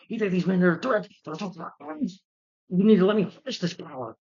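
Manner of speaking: overacting father bellowing at his son; over the top Nick Nolte. Movie reviewer mocks the father's overacted yelling, hammed-up. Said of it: "he's very over the top".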